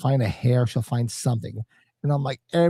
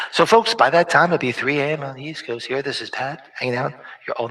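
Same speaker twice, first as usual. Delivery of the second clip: DJ voice again. Pretend. Streamer redoing his DJ line for viewers, lightly hammed-up. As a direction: announce it like a radio host. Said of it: "See if we can do it again".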